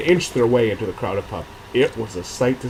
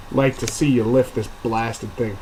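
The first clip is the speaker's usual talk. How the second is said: indignant dwarf. Acted. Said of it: "Crispin responded indignantly".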